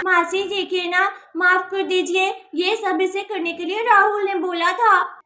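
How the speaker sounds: lightly acted crying plea; tearful pleading. Niece asking aunt to forgive her, tearful pleading. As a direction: beg as if in tears. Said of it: "अब रोना बंद करो".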